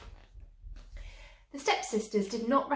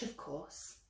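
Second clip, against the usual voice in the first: laughing aside; 5 semitones lower, 12 dB quieter than usual. A narrator's reading. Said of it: "the fairy godmother laughed".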